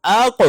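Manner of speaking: قاف in اق released with a bouncing echo; qalqala demo. Shown as a demonstration. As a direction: bounce the qaf at the end of اق. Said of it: "موٹا قاف جزم کی صورت میں قلقلہ کی آواز".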